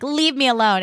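moody high schooler. Retold or imitated. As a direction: imitate a sulky teenager. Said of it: "moody high schooler kid is like".

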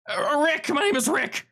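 high, startled man's voice; a jittery prisoner caught off guard; nervous trapped man. Acted. GM voices Rick.

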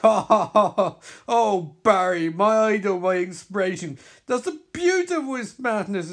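villain taunting the bloodied hero; gloating villain. Acted. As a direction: savour every word of praise. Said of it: "as Barry spits blood".

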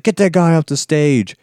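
bossy villain barking an order; mock angry order. Devlin ordering henchmen to clear the stage, mock angry.

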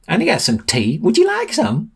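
put-on high, squeaky forgetful old man. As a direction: offer tea again like a dotty grandad. Old man offers tea again.

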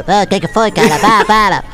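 gruff gravelly dwarf voice. Retold or imitated. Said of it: "aí anão, é".

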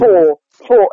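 "for, for" with heavy lip rounding; rounded for. Shown as a demonstration. Coach demonstrating the extreme vowel. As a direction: push the lips forward on "for". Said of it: "it's a lot of lip rounding".

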